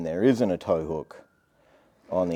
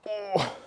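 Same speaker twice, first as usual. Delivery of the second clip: effort grunt; 11 semitones higher, 5 dB quieter than usual. Real, not acted. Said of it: "I keep grunting about my back".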